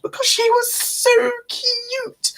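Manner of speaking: breathy whispered coo; whispered cute. Real, not acted. Cooing over her cat.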